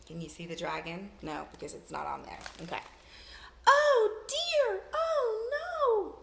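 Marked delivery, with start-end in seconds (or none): 3.7-6.2 much higher, louder panicky robot voice; much higher, loud frightened robot; scared robot. Acted. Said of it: "The robot was so scared".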